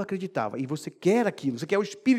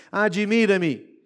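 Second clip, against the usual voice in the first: lento e admirado; 4 dB louder, much slower than usual. Acted. Citação lenta de Paulo.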